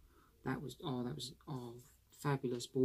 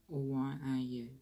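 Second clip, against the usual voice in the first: light Essex twang, barely shifted; a hint of Essex, casual greeting; showing how Essex people talk, lightly Essex; Essex accent demo. Shown as a demonstration. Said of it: "And Essex talk like this".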